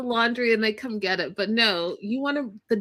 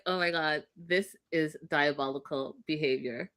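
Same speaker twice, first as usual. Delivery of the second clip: hushed mock horror; 6 semitones lower, 7 dB quieter than usual. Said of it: "I was like".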